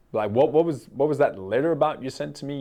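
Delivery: dad making light of the letter; joking dad. Retold or imitated. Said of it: "trying to be funny".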